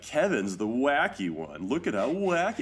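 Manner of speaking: playfully showy, rising on the second wacky; wacky one. Retold or imitated. Fan mimicking a put-on group persona, playfully wacky. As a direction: present the zany band member. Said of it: "you kind of put forth being like".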